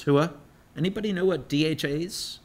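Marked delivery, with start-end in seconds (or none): 0.0-0.3 loud Army cheer; barked hooah. Retold or imitated. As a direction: bark it like a soldier. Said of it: "And the Army is".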